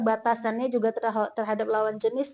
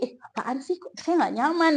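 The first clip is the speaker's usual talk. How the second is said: mildly indignant, higher-pitched retold objection; uncomfortable protest; 5 semitones higher than usual. Student objecting to a friend's touch, mildly indignant.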